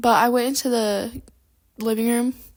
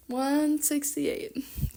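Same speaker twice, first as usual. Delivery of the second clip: very slow, softer repeat; drawn-out dismay; 3 semitones higher, 6 dB quieter, much slower than usual. Real, not acted. Vlogger reacts to her page number, drawn-out dismay. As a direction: drag the number out in disbelief.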